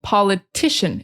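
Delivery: Politician, with the second syllable stressed; Po-LI-tician. Shown as a demonstration. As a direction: hit the LI in Politician,. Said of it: "it's on the second syllable".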